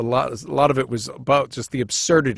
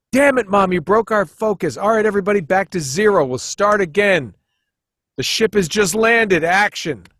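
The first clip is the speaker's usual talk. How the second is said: put-on kid director; 5 semitones higher than usual. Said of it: "mom runs out and goes".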